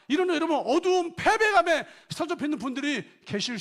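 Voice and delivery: loud, high fervent sermon voice; full-force preaching. Acted. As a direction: press the question on the congregation.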